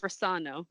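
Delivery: "Rossano" with the middle syllable stressed; stress on second syllable. Shown as a demonstration. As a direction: say "Rossano" as ros-SAH-no. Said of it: "with the emphasis on the second syllable".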